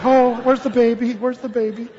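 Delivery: a touch of alarm, scanning the room; mock-anxious mom. Moms in the pews hunting for the crying baby, mock worry. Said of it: "the moms are just like".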